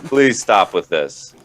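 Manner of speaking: pleading, laughing disbelief; exasperated. Retold or imitated. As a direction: beg him to stop, half laughing. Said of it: "I'm like".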